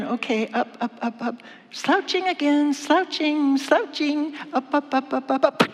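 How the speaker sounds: nagging urging. Acted. Wife pushing husband upright.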